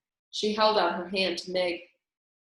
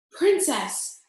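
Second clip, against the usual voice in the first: higher, louder call across the dungeon; shouting; 7 semitones higher, 5 dB louder than usual. A narrator's reading. The mouse calls to the princess, shouting. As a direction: call her name, loud. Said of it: "Despereaux shouted".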